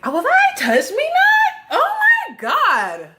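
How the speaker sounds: very high, slow and drawn-out, mocking a prissy younger self; high, slow, prissy mockery; squeaky mock voice. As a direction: send up your old self in a squeal. Mocking her younger self's attitude.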